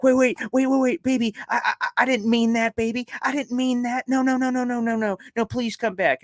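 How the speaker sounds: high, loud, frantic begging over the intercom; Happy Gilmore pleading with his girlfriend on the intercom, high and frantic. Retold or imitated. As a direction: plead desperately for her to come back. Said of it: "he goes on the intercom and he's like".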